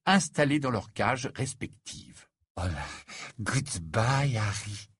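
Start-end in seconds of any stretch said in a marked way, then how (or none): 2.6-4.9 throaty voice. Acted. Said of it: "dit Fleur d'une voix de gorge".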